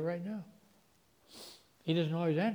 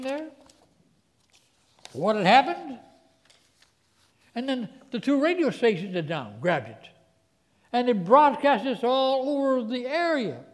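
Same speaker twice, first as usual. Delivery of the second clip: full-force preaching; 8 semitones higher, 8 dB louder than usual. Acted.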